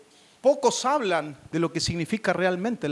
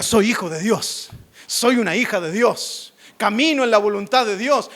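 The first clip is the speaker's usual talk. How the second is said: bold, emphatic testimony; proud proclamation for others to copy; chest-out proud declaration; 2 semitones higher, 4 dB louder than usual. Shown as a demonstration. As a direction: declare it firmly with chest puffed out. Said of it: "infle el pecho y diga".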